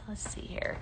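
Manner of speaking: quick whispered aside; whispered to herself. Real, not acted. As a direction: murmur it while reading the screen. Reading comment to herself.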